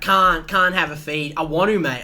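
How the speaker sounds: a lightly voiced old man citing his medication; old man excusing. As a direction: explain it like an old regular. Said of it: "He's like".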